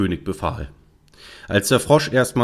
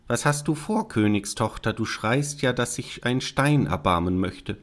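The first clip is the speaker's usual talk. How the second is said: slightly raised frog voice, addressing a crying princess; hint of a talking frog; lightly voiced frog; 4 semitones higher, 3 dB quieter than usual. Frog wondering at the crying princess, lightly voiced. Voices the unseen frog's call.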